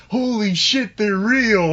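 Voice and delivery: laughing imitation. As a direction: mimic a friend's shocked yell while cracking up. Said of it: "I heard you say".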